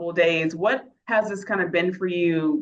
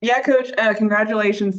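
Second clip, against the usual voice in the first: slight lisp from a new retainer; wearing a retainer; 3 semitones higher, 4 dB louder than usual. Real, not acted. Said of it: "Sorry if I have a lisp. I just got a new retainer".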